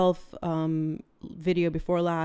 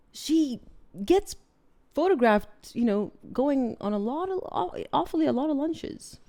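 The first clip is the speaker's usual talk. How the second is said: sarcastic; 7 semitones higher than usual. Real, not acted. Sarcastic jab at Meghan.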